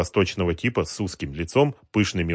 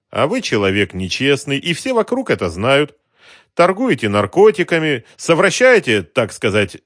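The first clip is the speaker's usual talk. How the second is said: higher, louder suave extortioner; polite racketeer; 9 semitones higher, 8 dB louder than usual. Acted. Racketeer smoothly threatens the shopkeeper, suave menace.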